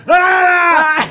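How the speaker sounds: very high short scream, hammed-up; mock scream. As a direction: let out a startled shriek. Retold scream at the car. (grito agudo encenado)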